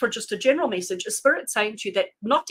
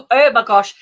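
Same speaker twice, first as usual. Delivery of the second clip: exasperated exclaim; 12 dB louder than usual. Real, not acted. Chat vanished during live stream.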